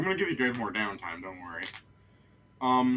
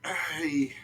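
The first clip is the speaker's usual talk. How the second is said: put-on guard voice; 5 semitones higher than usual. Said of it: "he flicks it away, and he goes".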